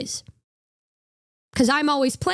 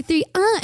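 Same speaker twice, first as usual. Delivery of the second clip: raised playful moan after the count; mock moan; 6 semitones higher than usual. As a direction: tease with a moan. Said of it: "And then she's like".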